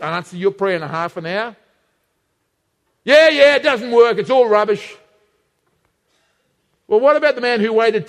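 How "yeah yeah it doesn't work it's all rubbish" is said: louder, scoffing mock voice of someone giving up; dismissive quitter. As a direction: blurt it out like you've had enough.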